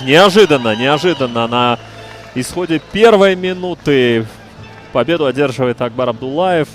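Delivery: loud, fast play-by-play call; excited commentary. Real, not acted. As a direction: call the sudden win. Commentator reacts to sudden finish.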